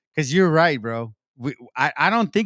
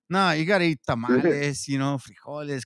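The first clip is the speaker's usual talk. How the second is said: mock Mexican preacher; 4 semitones lower than usual. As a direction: lower voice, lightly hammed-up pushy Mexican guy. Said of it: "I just had to say it like that".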